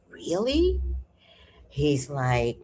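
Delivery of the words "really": breathy disbelieving whisper; the speaker doubting John in a whisper. Retold or imitated. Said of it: "And I said".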